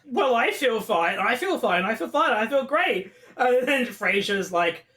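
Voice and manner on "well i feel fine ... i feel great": lightly acted protesting, pitch climbing as it repeats; mock insistence. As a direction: insist a bit too eagerly. Retold insistence of being fine.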